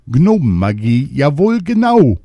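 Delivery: rising to a high, loud cry; excited shout. A narrator's reading. Poisoned king realizing it is gnome magic, excited shout. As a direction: burst out with the discovery. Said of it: "schrie er aufgeregt".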